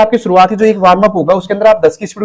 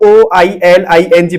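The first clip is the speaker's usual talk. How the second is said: spelled letter by letter; much slower than usual. Shown as a demonstration. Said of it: "पढ़ रहे हो उसको".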